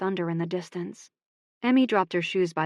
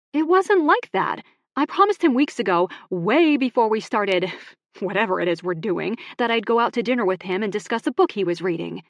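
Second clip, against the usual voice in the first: heated protest; 3 semitones higher, 5 dB louder than usual. Acted. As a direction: explain urgently, hurt. Emmy spins round protesting.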